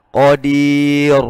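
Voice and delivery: Qadir with a thick r; heavy r in Qadir. Shown as a demonstration. Teacher shows the thick r in Qadir again. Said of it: "Itu tebal".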